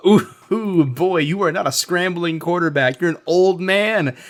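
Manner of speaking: excited mock taunting; playful ribbing. Real, not acted. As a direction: roast him gleefully. Teasing the slow pirate.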